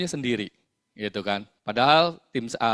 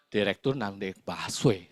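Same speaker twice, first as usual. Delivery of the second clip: slow, lower-pitched disbelieving question; incredulous; 5 semitones lower, 4 dB quieter, slower than usual. Retold or imitated. Leader reacting to agent's tale of a director, incredulous. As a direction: draw the question out in mock disbelief. Hears a director took the bus.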